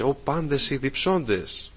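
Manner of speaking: slow, drawn-out call, not shouted. Acted. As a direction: stretch it into an understated summons. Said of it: "Σήμερα φωνάζει". (αργό, συγκρατημένο κάλεσμα)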